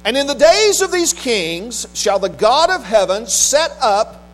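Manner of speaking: stately Bible reading, slowing towards the close; scripture reading. Acted. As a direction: proclaim the verse, drawing out the weighty words. Reads sermon text from Daniel.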